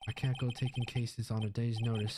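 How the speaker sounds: lightly Southern pompous lawyer; put-on Southern gentleman refusing; dismissive lawyer. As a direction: brush off the young caller.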